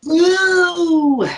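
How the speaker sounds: loud, high drawn-out whoop. Real, not acted. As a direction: let out a long high "woo". Cheering at crude joke.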